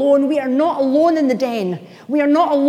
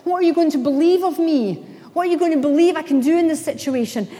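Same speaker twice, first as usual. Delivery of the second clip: God pleading; 4 semitones higher than usual. Retold or imitated. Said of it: "He's pleading".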